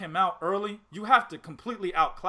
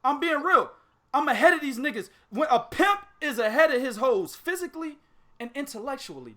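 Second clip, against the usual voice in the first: hyped rant; 6 semitones higher than usual. Real, not acted. Pimp rant.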